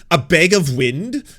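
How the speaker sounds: a slow incredulous question; amused disbelief. Real, not acted. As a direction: savour the phrase like a gift. Reads the insult, amused.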